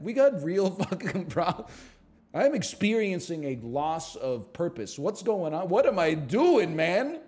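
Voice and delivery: loud, high despairing rant; exasperated outburst. Real, not acted. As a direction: throw up your hands and shout. Exasperated at reading game text.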